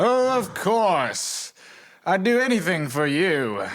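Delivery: chipper, high Saturday-morning cartoon voiceover. Voiceover artist performing a saturday morning cartoon scene: saturday morning cartoon voice. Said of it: "Saturday morning cartoon voiceover artists".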